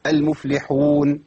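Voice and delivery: المفلحون with a two-beat madd; short madd. Shown as a demonstration. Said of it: "ليا أوجه ثلاث".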